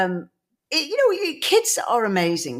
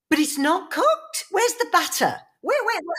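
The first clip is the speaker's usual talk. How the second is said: high, rising baffled mum voice; 12 semitones higher than usual. Retold or imitated. Mum at the sushi bar baffled by raw fish. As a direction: puzzle over raw fish like a no-nonsense mum. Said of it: "very no-nonsense type of person".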